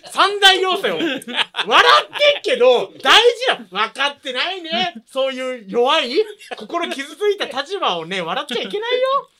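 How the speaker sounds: loud, high, fake-serious scolding; mock indignant lecture. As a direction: lecture them in pretend outrage. Mock-serious lecture to teasing friends. (ふざけて説教する口調)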